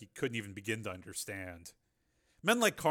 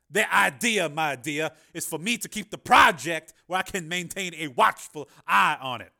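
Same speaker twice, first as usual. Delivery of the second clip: louder, higher patronizing Carmen; condescending politician; 7 semitones higher, 12 dB louder than usual. A narrator's reading. Carmen explaining to Jennifer, condescending. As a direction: talk down to her smoothly.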